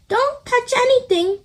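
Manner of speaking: warning. A narrator's reading. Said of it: "Miss Rabbit warns".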